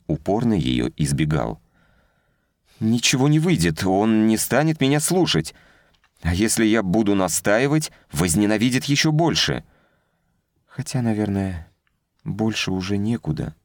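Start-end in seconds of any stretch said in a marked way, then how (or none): 2.8-13.6 put-on higher girlish voice, hopeless; a downcast young woman losing hope; young woman, despairing.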